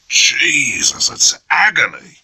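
strained whisper through clenched teeth; pained whisper. Acted. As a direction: whisper it, racked with pain. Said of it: "breath came heavily through clenched teeth".

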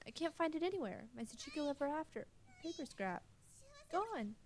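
high, frantic searching; girl frantically searching for her lost charm; rising panic. Acted. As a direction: search in growing dread.

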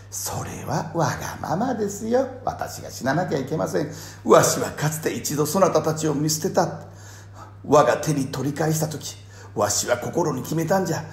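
lightly voiced Ieyasu, rising; pleading lord, building high; creaky wise old man. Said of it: "って言ってたけど".

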